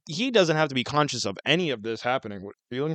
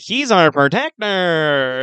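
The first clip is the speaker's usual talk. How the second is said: little people hailing; 2 semitones higher, 4 dB louder, much slower than usual. Retold or imitated. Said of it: "and they're like".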